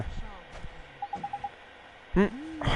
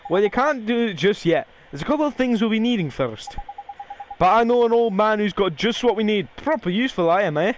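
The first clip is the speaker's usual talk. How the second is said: a cheeky Welsh fairy, pitched higher; lightly voiced fairy sidekick; 6 semitones higher than usual. Fairy companion ordering the boy to mend hearts, cheeky. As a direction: play the bossy little companion, a touch slowed at the end. Reading Drippy's lines aloud.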